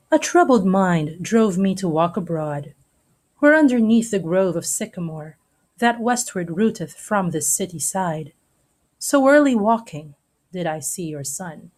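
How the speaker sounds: reading verse aloud with measured poetic phrasing; dramatic reading. Shown as a demonstration. Teacher reading Romeo and Juliet to the class, poetic reading. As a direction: lend the lines a gentle theatrical lilt.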